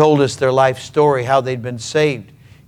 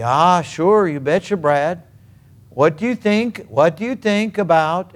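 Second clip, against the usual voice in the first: put-on higher, lilting Norwegian accent; 4 semitones higher than usual. Grandfather asks his grandson in the backyard, Norwegian accent. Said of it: "Norwegian accent, he'd say".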